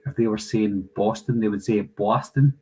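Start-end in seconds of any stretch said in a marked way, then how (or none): 1.8-2.5 imitating a New York accent; put-on New York pronunciation. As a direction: say it like a New Yorker. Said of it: "people from New York".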